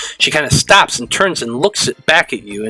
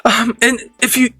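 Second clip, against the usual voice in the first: put-on high, worried girl's voice; teen girl character; 9 semitones higher than usual. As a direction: keep the high schoolgirl voice, anxious.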